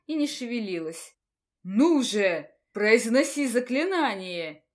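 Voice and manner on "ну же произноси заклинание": impatient command. Acted. Teacher urges student.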